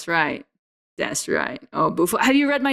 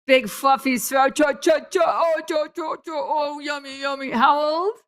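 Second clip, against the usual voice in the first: high squealing coo at a fluffy dog; high excited pet talk; 7 semitones higher than usual. Real, not acted. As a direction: melt over the puppy, squealing. Gushing over the dog.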